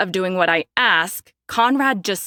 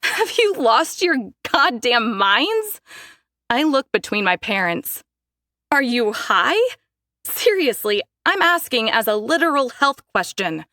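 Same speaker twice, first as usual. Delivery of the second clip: outraged; 4 semitones higher than usual. Acted. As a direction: let them have it. Daphne yelling at parents.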